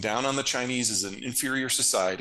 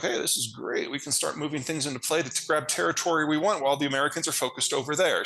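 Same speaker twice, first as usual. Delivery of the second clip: higher, quick gleeful mock voice; mock Chinese officials gloating; 5 semitones higher, faster than usual. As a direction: gloat fast and high as the schemer who sees his chance. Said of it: "They were like".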